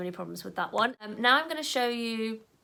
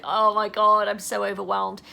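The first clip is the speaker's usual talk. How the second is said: loud, hammed-up panic; overwhelmed wail, imitating a client; mock meltdown; 10 dB louder than usual. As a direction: play a ten out of ten freak-out. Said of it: "full-scale meltdown and you're like".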